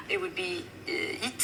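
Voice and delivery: "it" for heat, the H dropped; French-accented heat. Shown as a demonstration. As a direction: say heat as "it", silent H. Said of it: "when you're doing it in a French accent".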